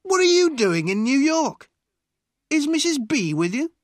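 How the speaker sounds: loud, high-pitched hearty questioning; loud cry. A narrator's reading. Fat man questions the lawyer in the hotel, loudly. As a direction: boom out questions at an old acquaintance, pitched high. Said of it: "he cried loudly".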